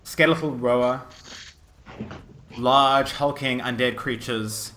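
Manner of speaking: measured storytelling with dramatic pauses; game master narration. Acted. Game master describes the necromancer and his army, suspenseful narration. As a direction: lay out the menace phrase by phrase.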